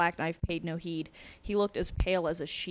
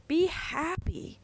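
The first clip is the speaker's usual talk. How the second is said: high, drawn-out cheer; cheery urging; 10 semitones higher, much slower than usual. Acted. Captor urging his prisoner to be happy, cheerily. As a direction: stretch it out in a lifted voice.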